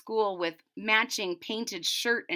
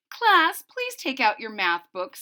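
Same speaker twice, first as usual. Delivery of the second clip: teacher calling class; 3 semitones higher, 5 dB louder than usual. Acted. Teacher addressing her class, calling out. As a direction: call the class to attention like a teacher. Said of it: "said Miss Hart".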